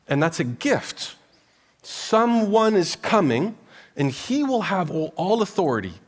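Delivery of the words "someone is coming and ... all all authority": higher, louder triumphant announcement; rising proclamation. Acted. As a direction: herald the coming king. Preaching climax about coming king.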